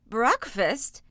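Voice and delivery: echoing ogress. Acted. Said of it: "echoed the woman".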